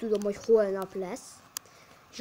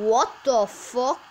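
surprised; 3 semitones higher, 9 dB louder, much slower than usual. Real, not acted. Disbelief at goal.

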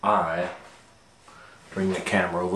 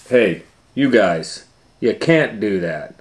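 Fred voice; 3 semitones higher, 6 dB louder than usual. Acted. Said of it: "said Fred".

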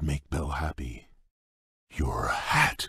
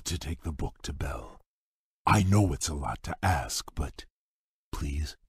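whispered, then barely audible please; a shy whispered request; hushed plea; 6 dB quieter than usual. Acted. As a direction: beg softly, almost under the breath. Shy Beast begging a favor.

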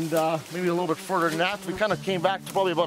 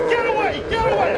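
very high, loud yell; re-enacted warning scream; 9 dB louder than usual. Hunter to bear at full charge, screaming. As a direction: scream it to repel an attacker.

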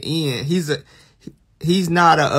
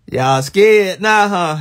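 slow, louder teasing drawl; mock spooky taunt; 4 dB louder, slower than usual. Streamer taunting chat after a scary sound, slow and teasing. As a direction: stretch it out to taunt them.

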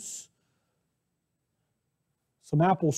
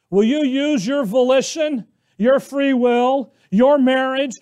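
God's command; 4 semitones higher than usual. Acted. Preacher voicing God's command.

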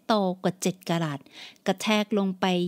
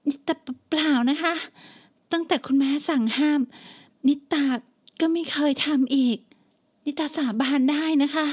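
higher, stammering, scared daughter; frightened pleading; 6 semitones higher than usual. Acted. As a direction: beg her mother, trembling in pain. Hair pulled, daughter swears.

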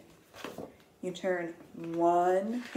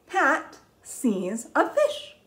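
slow reading; 5 semitones higher, much slower than usual. Shown as a demonstration. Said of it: "read it with me".

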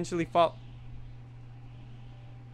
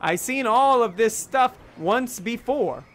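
confused; 3 semitones higher, 5 dB louder than usual. Retold or imitated. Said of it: "I would recollect all this in my dream and say".

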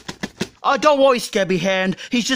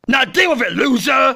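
taunting shout. Acted. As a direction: yell it with a jeer. Dad taunting crying son.

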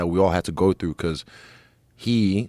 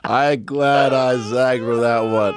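laughing; 5 semitones higher, 3 dB louder, much slower than usual. Real, not acted. Laughing at own lucky choice.

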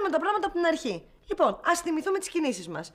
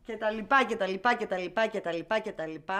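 skimming recap; 7 semitones lower than usual. Acted. Woman retracing her steps, skimming and fading. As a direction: rattle it off, fading down step by step. Skimming through remembered events.

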